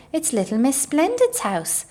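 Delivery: excited cry. A narrator's reading. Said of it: "cried Mister Tickle".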